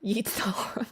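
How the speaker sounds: a sly little whispered aside. Pretend. Singer whispering a cheeky tip to her viewers, whispered. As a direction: whisper "Yeet the harm" like a naughty secret.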